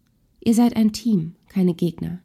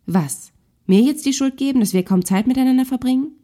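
indignant; 5 semitones higher than usual. Acted. Wife cutting her husband off mid-quarrel, indignant and raised. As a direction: throw the blame back at him.

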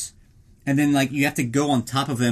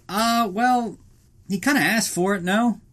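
higher-pitched, hesitant excuse; mock hesitant cop; 6 semitones higher than usual. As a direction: hem and haw as a cop excusing it. Acted cops shrugging off a killing.

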